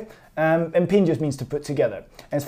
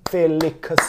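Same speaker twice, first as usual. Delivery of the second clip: Chinese accent. Shown as a demonstration. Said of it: "if you pronounce it in the Chinese accent".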